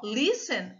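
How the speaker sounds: "listen" with a drawn-out, strong "lis"; stress on first syllable. Shown as a demonstration. Teacher showing the strong syllable, "listen" stressed on "lis". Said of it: "a sílaba forte tá aqui no lis".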